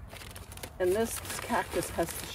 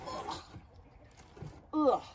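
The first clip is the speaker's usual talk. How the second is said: effort grunt; 8 semitones higher, 4 dB quieter than usual. Real, not acted. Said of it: "And it weighs a ton".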